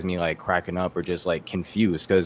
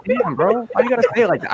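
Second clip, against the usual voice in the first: whiny complaint; 13 semitones higher, 4 dB louder than usual. Retold or imitated. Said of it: "I was like".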